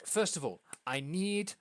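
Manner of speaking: fast, excited stammering impresario; lightly voiced flustered theatre manager; excited hostess. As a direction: babble the plan out breathlessly. GM voicing hostess casting roles.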